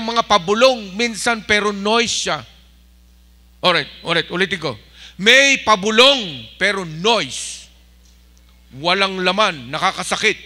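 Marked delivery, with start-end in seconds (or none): none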